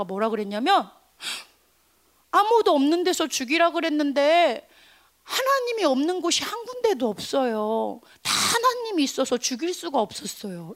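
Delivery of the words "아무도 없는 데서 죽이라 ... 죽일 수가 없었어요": mild mock-crying voice; acted tearful. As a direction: play a tearful monk explaining himself. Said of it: "이렇게 울면서 온 거야".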